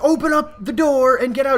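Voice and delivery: high, loud commanding shout; cop ordering. Retold or imitated. Cop yelling at driver to open door, loud.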